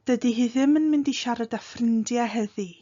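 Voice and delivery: ffrindiau ending in "eh", heddi ending in "ee"; everyday spoken Welsh, heddi with its last w dropped; colloquial endings. Shown as a demonstration. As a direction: say ffrindiau as "frin-dya" and heddi without the final oo. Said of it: "might sound like heddi".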